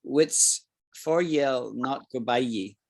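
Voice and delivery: slow, light Scots accent on ye'll. Shown as a demonstration. Teacher showing learners the real Scots way, light Scots accent. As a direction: say it like a proper Scottish person, slowly. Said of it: "say it like a proper Scottish person".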